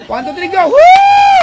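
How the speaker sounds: high countdown then a loud whoop; rally the listeners to yell; hyped whoop; countdown cheer. Real, not acted. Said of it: "sumigaw kayo".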